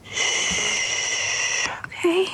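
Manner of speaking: hushed shushing whisper. Acted. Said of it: "let's use our quiet time voices".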